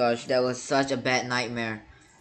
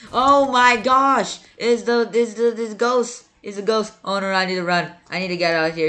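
terrified scream; 9 semitones higher, 8 dB louder than usual. Real, not acted. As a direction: shriek and try to flee the ghost. Ghost appears and chases him.

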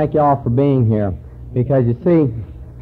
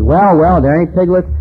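eager; 5 semitones higher, 5 dB louder than usual. Retold or imitated. Husband asks his wife.

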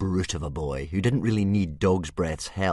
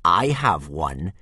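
smug grin; 7 dB louder, slower than usual. A narrator's reading. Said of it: "grinned Snotlout".

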